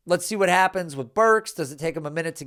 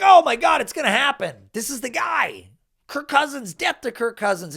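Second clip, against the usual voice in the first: mock fan hype, higher at the start; 5 semitones higher, 3 dB louder than usual. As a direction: ham up the overexcited fans. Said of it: "They're like".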